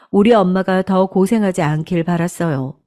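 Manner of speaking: plain reading voice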